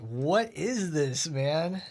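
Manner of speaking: mock exasperated. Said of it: "I'm like".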